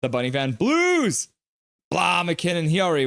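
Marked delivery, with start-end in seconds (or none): 0.5-1.3 mock cheer. Chants a viewer's team cheer.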